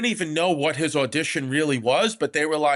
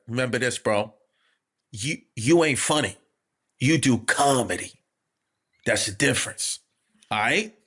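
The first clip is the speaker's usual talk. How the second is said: imitated earnest mentor, lower with weighty pauses; Tracy Morgan; 4 semitones lower than usual. Imitating a star's backstage compliment, mock-loving. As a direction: deliver it as mock-solemn loving wisdom. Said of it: "he said it so lovingly and affectionately".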